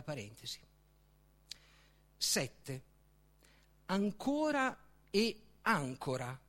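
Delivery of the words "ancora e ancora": Ancora stressed an-CO-ra, then ancora stressed AN-co-ra; first Ancora on the middle syllable, second ancora on the first; shifting stress. Shown as a demonstration. Speaker showing the adverb and the noun, stress shifted. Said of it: "Slitta solo l'accento".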